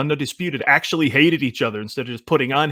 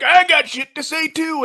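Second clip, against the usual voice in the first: mocking a brash guy. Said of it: "he was just like".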